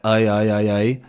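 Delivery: AY, AY, AY chained in one glide; moving vowel. Shown as a demonstration. Teacher showing twang in vowels, looping glide. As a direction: loop the AY so the vowel keeps moving. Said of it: "that movement in the vowels".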